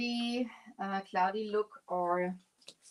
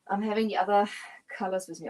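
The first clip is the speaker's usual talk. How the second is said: talking while short of breath; breathless, gasping between words; 5 dB louder, much faster than usual. Real, not acted. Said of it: "I'm out of breath".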